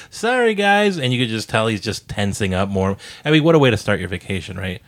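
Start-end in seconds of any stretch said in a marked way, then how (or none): 0.1-1.0 high-pitched mock nervous apology; nervous giggling. Host imitating poor Brad apologising to the group, nervous giggle. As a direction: imitate an embarrassed, giggly sorry. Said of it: "he's nervously giggling like".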